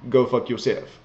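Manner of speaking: badly faked French accent; lightly put-on, clumsy French accent. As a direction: say it like a hammy, unconvincing Frenchman. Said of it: "That was a horrible French accent".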